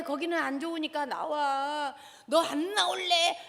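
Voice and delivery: slow, rising scolding threat; threatening parent. Shown as a demonstration. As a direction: warn the child sharply. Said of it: "협박을 하거나 회유하려고 하지 말고". (협박하는 부모 말투)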